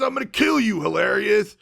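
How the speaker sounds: hammed-up screaming villain; screaming charge. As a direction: charge in roaring the threat. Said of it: "does one of those screaming charges".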